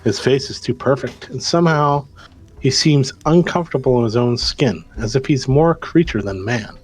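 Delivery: measured storytelling read; game master narration. Acted. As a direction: set the scene for the players. Game master tells the scene.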